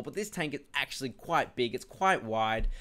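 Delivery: breathless talking; out of breath. Real, not acted. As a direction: speak out of breath. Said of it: "I'm out of breath".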